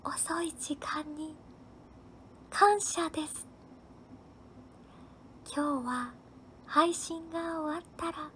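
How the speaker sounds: soft, halting half-whisper with long pauses; angel's whisper. Pretend. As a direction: whisper gently, phrase by phrase, to send them to bed. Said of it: "今年も何かささやいてください". (天使のようにそっとささやく)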